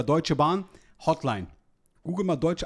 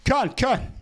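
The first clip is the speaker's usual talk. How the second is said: put-on Vietnamese accent in German; 4 semitones higher than usual. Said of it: "Hotel muss man als Vietnamese anrufen".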